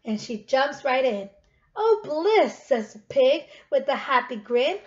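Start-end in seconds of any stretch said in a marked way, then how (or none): 1.7-2.6 loud, higher delighted oh; a grinning pig in heaven; blissful pig. Acted. Pig grins jumping into tub.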